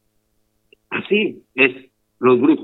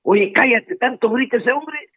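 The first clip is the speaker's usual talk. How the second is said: scolding hush; 9 semitones higher than usual. Acted. Crowd hushing the blind man.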